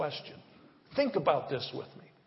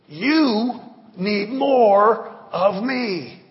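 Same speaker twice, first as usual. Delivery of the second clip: slow, calm divine voice; God's voice; 5 semitones higher, 10 dB louder, much slower than usual. Pretend. God answering the pastor, slow and calm. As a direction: deliver it slow and weighty as God. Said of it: "what he's been saying to me".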